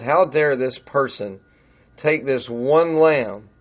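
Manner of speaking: preacher voicing David's outrage, measured and firm; outraged. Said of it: "David gets outraged".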